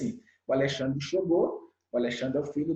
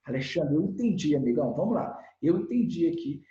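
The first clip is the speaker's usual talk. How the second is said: firm demo; 2 semitones lower than usual. Shown as a demonstration. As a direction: get his attention calmly but firmly. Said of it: "uma linguagem agressiva do Studio Move é". (tom firme e contido, sem gritar)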